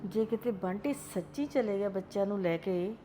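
lonely mother lamenting her son's leaving; sorrowful lament. Acted. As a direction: mourn quietly, left alone. Grandmother alone, lamenting.

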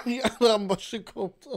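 high, slow words squeezed through laughter; laughing. Real, not acted. Streamer repeating the clip's phrase while cracking up, laughing.

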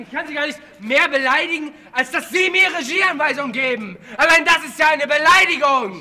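furious, half-laughing outburst; berserk rage. Real, not acted. Shouting down the director.

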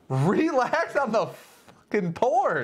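high, slow mock-stern voice; gruff put-on voice. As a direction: play a bossy bartender scolding. Scolding a cohost over pours.

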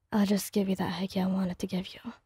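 hushed teasing whisper. Acted. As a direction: breathe it right into her ear. Kirishima whispers close.

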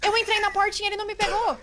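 breathless relief. Real, not acted. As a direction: report the escape, heart racing. Just escaped the monster.

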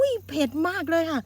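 gasping at the chili heat; mouth burning from spicy food. Real, not acted. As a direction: mouth on fire, voice pushed up. (ปากแสบร้อนเพราะพริกเผ็ด)

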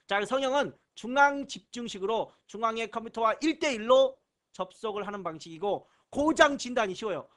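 ordinary talk, nothing marked

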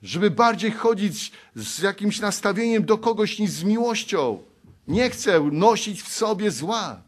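fervent preaching. Acted. Preacher pleading to the congregation, fervent and loud.

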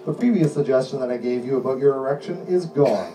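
steady, insistent hypnotist delivery; hypnotic suggestion voice. Acted. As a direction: lull them in with firm calm commands.

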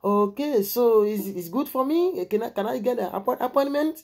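high, slow mock woman's voice; put-on lady voice. Retelling his phone call, high and slow as the lady. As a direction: act out the caller, drawing it out. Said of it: "elle dit".

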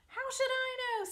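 high, loud, huffy rat voice; a put-upon rat snapping back; indignant rat. Acted. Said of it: "said Templeton".

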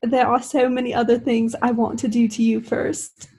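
lightly voiced English accent; a hint of English in the accent. Hardin makes Tess an offer, light English accent. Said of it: "Don't forget Hardin's accent".

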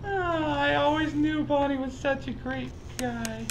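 high, breathless laughing talk; laughing hard. Real, not acted. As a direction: laugh through the words. Laughing about Bonnie joke.

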